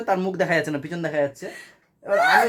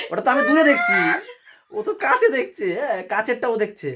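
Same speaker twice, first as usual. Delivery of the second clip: high-pitched, amused telling with laughs breaking in; laughing retelling; 4 semitones higher than usual. Real, not acted. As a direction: tell it barely holding back real laughter. Laughs while retelling funny incident. (হাসতে হাসতে বলা)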